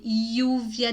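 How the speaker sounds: "lluvia" opened with a y glide; regional pronunciation. Shown as a demonstration. Teacher showing regional variants, demonstrated pronunciation. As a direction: say "lluvia" slowly, like yuvia. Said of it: "dependendo da região".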